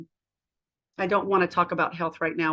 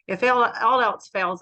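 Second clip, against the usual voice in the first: emphatic retelling; 3 semitones higher, 4 dB louder than usual. Retold or imitated. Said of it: "and I said".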